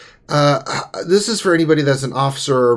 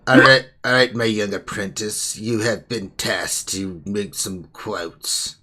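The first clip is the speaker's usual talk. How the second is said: Sith master voice. Pretend. Addresses her as Sith apprentice.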